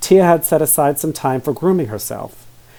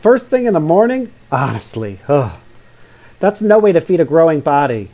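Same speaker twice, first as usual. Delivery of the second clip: prim disapproval; 3 semitones higher than usual. Acted. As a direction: scold like a proper little girl. Prim Tia disapproves of donuts.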